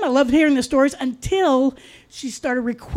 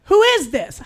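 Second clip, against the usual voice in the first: roommate's voice; 7 semitones higher, 3 dB louder than usual. Retold or imitated. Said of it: "that same voice answered".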